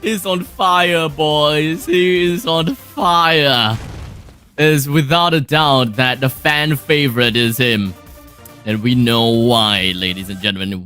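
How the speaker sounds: slow, drawn-out hype; esports caster. Real, not acted. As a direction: stretch each word for the crowd.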